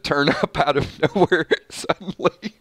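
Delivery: losing it mid-sentence; real laughing. Real, not acted. Reader cracking up over the missing wife line, laughing. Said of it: "if I laugh halfway through".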